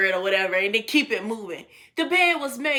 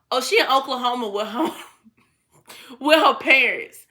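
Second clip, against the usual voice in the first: laughing retelling; 5 dB louder than usual. Retold or imitated. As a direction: quote breaking up with laughter. Laughs retelling his answer.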